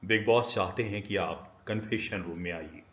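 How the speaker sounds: बिग बॉस की घोषणा वाली आवाज़; Bigg Boss announcer. Shown as a demonstration. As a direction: announce it like the show's unseen host. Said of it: "let's take one example of Bigg Boss".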